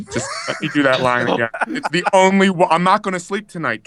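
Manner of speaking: escalating, hammed-up desperation; insistent retold plea. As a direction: plead harder, voice climbing as you go.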